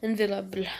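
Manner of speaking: repeating the word in a French accent, trying again; French-accented English. Shown as a demonstration. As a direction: say unavailable the French way, as /ɛnvelabl/. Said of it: "mon accent en anglais est super".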